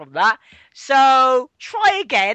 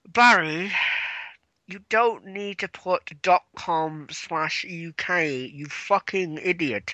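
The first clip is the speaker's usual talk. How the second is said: Vince scolding Barry; 5 semitones lower, 6 dB quieter, slower than usual. Retold or imitated. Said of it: "Vince is like".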